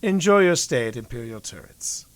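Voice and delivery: fake smile. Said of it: "a fake smile".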